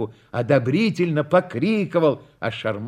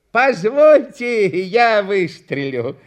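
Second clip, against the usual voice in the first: higher, slow, earnest request; sincere offer; 6 semitones higher, 4 dB louder, slower than usual. A narrator's reading. Contractor pitying the clown offers to shoot, earnest. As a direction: offer help with heartfelt concern. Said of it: "искренне болея душой за клоуна".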